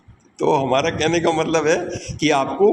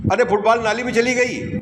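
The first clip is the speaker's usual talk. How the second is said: casual sports exclamation; 6 semitones higher, faster than usual. Shown as a demonstration. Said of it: "खेल की बात हो रही हो".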